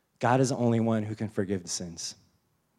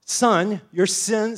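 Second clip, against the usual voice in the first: raised, louder proclamation; voicing Jesus; 8 semitones higher, 7 dB louder, much slower than usual. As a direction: declare it to the crowd. Jesus voiced in a sermon.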